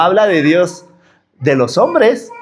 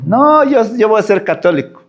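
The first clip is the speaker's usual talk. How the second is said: put-on defiant child; 3 semitones higher than usual. Child refusing, voiced by preacher.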